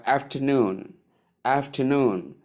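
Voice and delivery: afternoon said as after-NOON; last-syllable stress. Shown as a demonstration. Teacher modelling afternoon as one word, last syllable stressed. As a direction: lean on NOON in afternoon, then fall. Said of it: "stress is placed on the last syllable".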